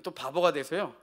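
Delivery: usual speaking voice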